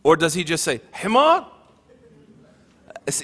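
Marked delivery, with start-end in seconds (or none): 0.9-1.5 mock angry insult. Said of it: "whenever a bawab would get mad".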